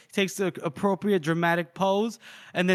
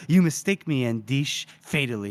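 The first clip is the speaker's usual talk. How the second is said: menacing villain; 2 semitones lower than usual. Retold or imitated. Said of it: "And then he goes".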